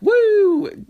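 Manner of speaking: high, loud mock whoop of glee; a sudden high shout of joy. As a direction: whoop it out like a wild cultist. Cultists wander the desert cheering.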